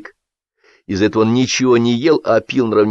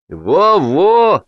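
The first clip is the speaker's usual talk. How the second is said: mumbling; 10 semitones higher, 4 dB louder than usual. A narrator's reading. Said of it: "забубнил ему вслед Кытин".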